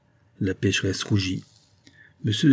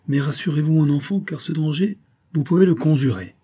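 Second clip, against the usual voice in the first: put-on reassuring older nobleman, pitched higher; a soothing aristocrat with a lift in the voice; lightly voiced suave viscount; 7 semitones higher, 3 dB louder than usual. Viscount soothing his son's frightened lover, higher and suave.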